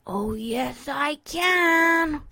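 rising to a high, loud finish; playful comeback. Acted. Colt answering his friend's dare, playfully defiant. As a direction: build up to a triumphant last word.

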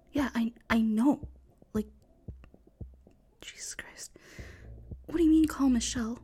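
hushed frightened whispering; tense whisper. Acted. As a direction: whisper urgently, hiding from killer.

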